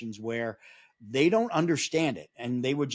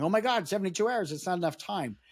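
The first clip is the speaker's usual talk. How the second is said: imitating panicked people, high and quick; hurried, high-pitched mock alarm; mock freak-out; 6 semitones higher than usual. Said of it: "people freaking out going".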